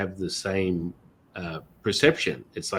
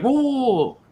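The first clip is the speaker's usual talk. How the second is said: mock pained whoa; 6 dB louder than usual. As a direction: wail a long, high whoa. Acting out own pained cry.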